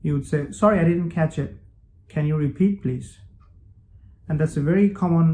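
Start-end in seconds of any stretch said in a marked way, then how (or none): 0.6-3.1 "didn't catch it" run together, native-style; faster, like a native. Shown as a demonstration. Teacher showing learners the quick native phrasing. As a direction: blend it the way native speakers do. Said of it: "faster, just like native".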